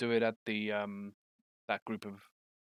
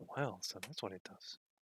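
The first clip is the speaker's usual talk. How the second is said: very quiet, barely audible mutter under the breath; 10 dB quieter than usual. Speaking in character as summoned creatures clash, muttered under her breath. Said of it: "under her breath is like".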